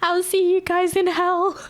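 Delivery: mock sinister. Real, not acted. Joking dark line.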